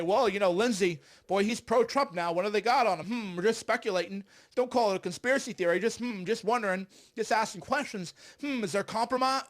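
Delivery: mock reporter voice. Mocking mainstream reporters who hint at compromise, loud sly tone. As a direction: play innocent, needling, loud and smug. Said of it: "Mainstream reporters get to say".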